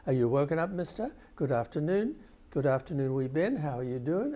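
imitating the mother's greeting, tune lifting into questions; mother's questioning lilt, lightly imitated; questioning rise. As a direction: invite a baby with upturned questions. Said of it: "pitch of her voice goes up, questioning".

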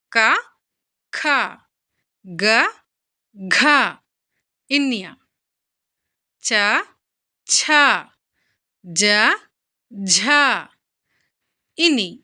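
క, ఖ, గ, ఘ in order, each isolated by a long pause; reading while writing. Shown as a demonstration. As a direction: recite from క to ఇని slowly spaced, aspirating ఖ, ఘ, ఛ, ఝ. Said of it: "చదువుకుంటూ రాయండి".

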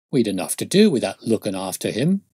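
mildly put-upon constable; aggrieved. Acted. Constable excuses himself to detective, mildly aggrieved. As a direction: protest with a touch of grievance. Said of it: "said in an aggrieved voice".

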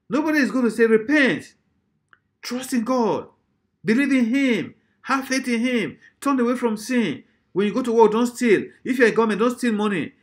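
high, insistent string of commands; urgent pulpit exhortation; preaching exhortation. Acted. Exhorting as an unpopular preacher would.

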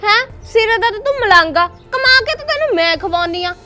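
rising fury at a useless husband; angry retort. Acted. Wife fights back at husband. (ਗੁੱਸੇ ਨਾਲ ਉੱਚੀ ਬੋਲੀ)

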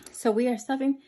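out of breath from stairs; slightly out of breath talking. Real, not acted. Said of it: "I sound out of breath 'cause I just came up the stairs".

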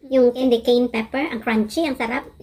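speaking between bites; talking while chewing. Real, not acted. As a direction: mouth partly full of food. Seen 0: Just ate from fork; mouth moves chewing while she speaks, holding sandwich.

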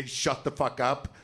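slow seething line; inner anger. Retold or imitated. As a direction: spit it out slowly, held back. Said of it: "wants to say".

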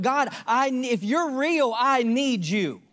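slow, desperate plea to God; pleading prayer. Retold or imitated. A preacher reliving his plea to God, slow and desperate. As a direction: draw it out like a broken cry for help.

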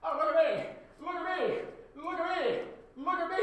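high-pitched, loud mocking singsong; mocking imitation. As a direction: taunt them with a high mimicking voice. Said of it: "That's what you sound like".

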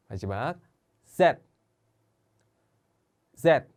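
Indonesian alphabet read slowly and clearly; letter names read aloud. Shown as a demonstration. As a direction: read each letter twice for repeating. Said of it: "같이 따라해주세요". (인도네시아어 알파벳 또박또박 읽기)

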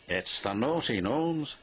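teasing. Acted. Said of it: "teased Donald".

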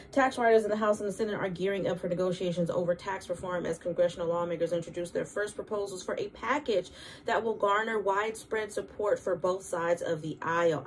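newscaster voice. Shown as a demonstration. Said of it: "I sound like a newscaster".

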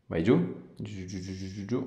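gentle coaching that fades out; coaxing down. Real, not acted. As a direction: ease her further down with each word. Coaching her to bend further down.

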